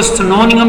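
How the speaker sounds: سنونیم said as snoniam, without a vowel after the s; "سنونیم" pronounced snoniam, the first vowel dropped; one way to say it. Shown as a demonstration. Teacher showing the snoniam pronunciation of "سنونیم". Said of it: "دو تین قسم کی pronunciation".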